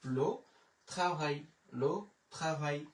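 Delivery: French le travail, lo tra-vai; French demo. Shown as a demonstration. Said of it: "তাহলে হয়ে গেল".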